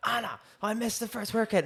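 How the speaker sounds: high, strained retold wail; retold panicked crying. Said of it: "I basically started crying".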